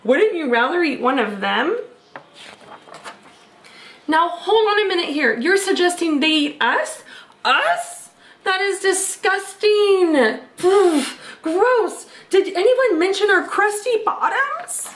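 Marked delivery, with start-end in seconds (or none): 4.1-14.9 higher, huffy cartoon pizza voice; hammed-up disgust; outraged pizzas. Pizzas protest at being eaten, higher and huffy.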